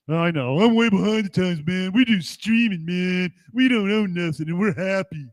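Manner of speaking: hint of a smug, behind-the-times mocker's impression; mock streaming fan. Host imitating people who stream and own nothing, mocking.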